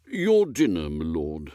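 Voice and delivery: lightly voiced deferential butler; measured, correct butler's murmur. Butler announcing dinner to his lord, lightly voiced, deferential.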